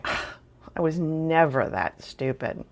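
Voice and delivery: slow, smug self-satisfied scoff; self-righteous. Retold or imitated. Sitting in the car judging the girl, slow smug scoff. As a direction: drawl it out with mock superiority. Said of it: "my very self-righteous attitude going".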